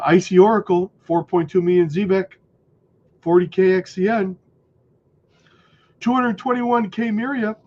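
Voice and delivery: reading numbers through hiccups; hiccuping between words. Real, not acted. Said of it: "I got the hiccups".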